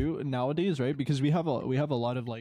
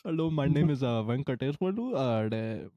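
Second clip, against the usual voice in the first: put-on Indian accent. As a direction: introduce yourself in a mock Indian accent. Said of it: "put on an Indian accent".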